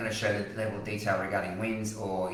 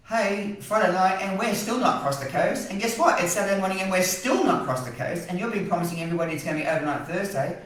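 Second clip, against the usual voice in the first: mock the model's promise in a heated rant; 8 semitones higher than usual. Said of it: "I'm gonna stop ranting".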